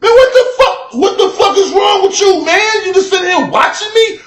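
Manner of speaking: high, loud, laughing yell at the neighbor; hammed-up shout of disbelief, half laughing; yelling through a laugh at the guy who keeps staring; laughing mock shout.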